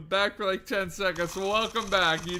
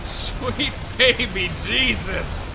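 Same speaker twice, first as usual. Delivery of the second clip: awed; 4 semitones higher, 8 dB louder, much slower than usual. Real, not acted. Huge antimatter explosion.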